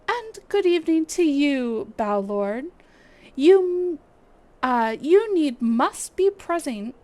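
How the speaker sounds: lightly voiced stately guild leader, measured; brief the adventurers with courteous gravity; Lewin, formal commander. Streamer voicing the guild leader's mission briefing, lightly formal. Reading NPC Lewin's lines.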